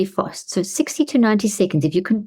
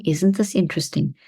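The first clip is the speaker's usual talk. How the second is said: calm. Shown as a demonstration. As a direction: keep breathing and say it evenly. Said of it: "neutral stance".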